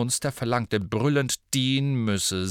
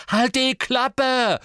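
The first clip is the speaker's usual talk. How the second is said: slow, much higher, louder roar; bellow; 14 semitones higher, 7 dB louder, much slower than usual. Acted. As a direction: roar it out word by word. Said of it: "brüllte Ron".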